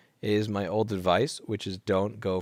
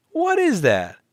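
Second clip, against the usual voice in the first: shrieked question; 13 semitones higher, 9 dB louder, slower than usual. Real, not acted. Shrieked repeat.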